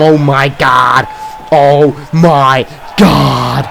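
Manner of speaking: slow, drawn-out disbelief; stunned. Real, not acted. Commentator stunned by Athena's choke slam, drawn out. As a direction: stretch out each oh my God.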